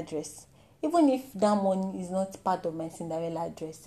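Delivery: soft, low coaxing parent; gentle parent. Retold or imitated. Ideal parent explaining the kept money gently. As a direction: coax the child kindly. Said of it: "instead of you to say".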